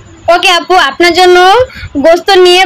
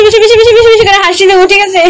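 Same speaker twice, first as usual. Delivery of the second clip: excited; 4 semitones higher, faster than usual. Real, not acted. Hyping up viewers.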